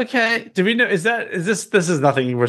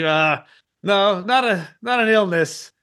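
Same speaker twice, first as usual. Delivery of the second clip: halting, slightly raised reply; stammering denial; 5 semitones higher, slower than usual. Acted. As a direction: stumble over the start and restart. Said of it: "like, stammers".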